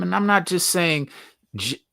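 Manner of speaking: normal talking voice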